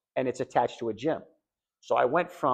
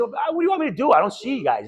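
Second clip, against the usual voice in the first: higher, louder whiny plea, half crying; imitating tearful plea; 12 semitones higher, 6 dB louder than usual. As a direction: replay the choked-up plea to his wife on FaceTime. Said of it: "So just crying".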